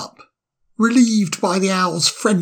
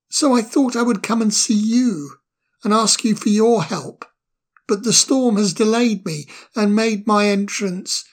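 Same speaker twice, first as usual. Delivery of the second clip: put-on shy boy asking for help; nervous young fire sprite; 3 semitones higher than usual. Fire sprite hesitantly asks the owl for help. Ermo's voice, higher.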